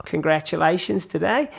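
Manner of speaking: imitated Aussie caller; Australian accent. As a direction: congratulate in a put-on Australian accent. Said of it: "I'll stop the accent now".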